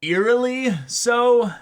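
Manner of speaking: high, slow spooky "eerily so"; mock-spooky drawn-out tone; eerie high voice. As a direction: stretch it out like a ghost story.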